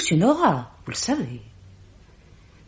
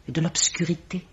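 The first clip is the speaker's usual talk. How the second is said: ominous whisper; 6 dB quieter than usual. Acted. Dark warning about obscurity.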